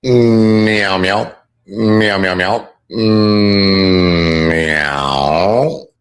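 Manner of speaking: sing-song meowing like a cat; playful kitten meows. Pretend. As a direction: meow playfully at the chat.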